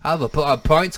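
mock English vowel, "pint" nearing "point"; lightly hammed-up English accent; put-on English accent. Shown as a demonstration. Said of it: "going to be in an accent".

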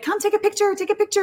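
high, eager imitation of the others; retold urging. People from the line to the upset contestant, retold urging.

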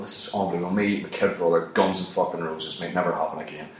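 low, soft, understated wonder; emotional. Retold or imitated. Moved at seeing a band with kid brother, emotional. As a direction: say it quietly, a touch overcome. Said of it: "I got emotional at this thing".

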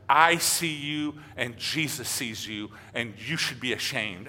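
a hint of an old woman's reproach, drawn out; older woman voice. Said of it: "that same kinda older woman voice".

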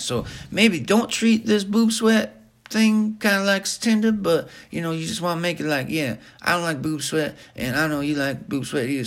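high, chatty sponsor pitch; mock ad read. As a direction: sell it like a rambling, excitable parody advert. Continues the parody sponsor read.

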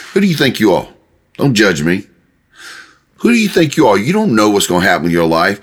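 lightly acted challenge, pitch lifting on the question; mock confrontational jerk. A person coming up to judge you, mildly confrontational. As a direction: take them down a peg, half-acted. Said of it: "it feels like somebody is being a jerk".

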